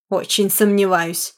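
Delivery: slow, raspy gloat; gloating rasp. Acted. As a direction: croak it with malicious glee. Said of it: "злорадно прохрипел детектив".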